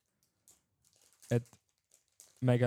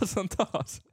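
laughing; 8 semitones higher, slower than usual. Real, not acted. Repeated with laugh.

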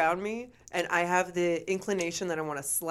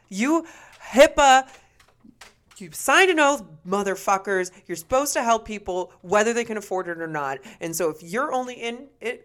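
angry shout; 5 dB louder than usual. Real, not acted. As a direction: shout it at greedy doctors. Ranting at greedy doctors.

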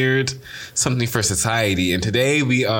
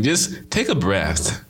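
soothing calm voice; 3 semitones lower, slower than usual. Acted. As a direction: talk them down gently. Calming advice, slow and low.

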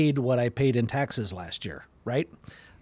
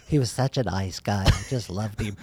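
mock eulogy; 4 semitones lower than usual. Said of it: "let's all remember Kirk kind of thing".

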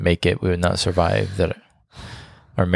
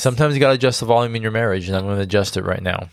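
cheesy; faster than usual. Acted. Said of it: "that was super cheese".

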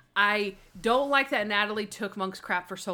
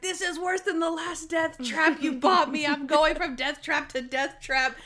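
higher, complaining voice as a fussy detective; lightly voiced, put-upon grumble about the wheelchair; whiny Monk; 6 semitones higher, 3 dB louder than usual. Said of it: "And he's like".

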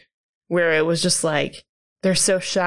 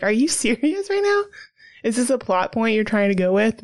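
incredulous; 2 semitones higher than usual. Retold or imitated. Incredulous retort to daughter's line.

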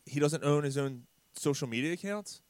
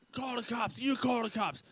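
retold scream; 8 semitones higher, 4 dB quieter than usual. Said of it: "Screaming at him".

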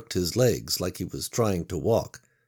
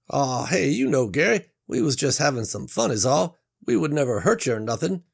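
higher, quick smoothing-over; placating Reggie; 6 semitones higher, 3 dB louder than usual. Acted. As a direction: brush it off, faster.

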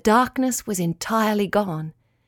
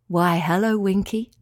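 soft, beautiful voice; 2 semitones lower than usual. Acted. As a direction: call out softly and kindly. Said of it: "a soft, beautiful voice called".

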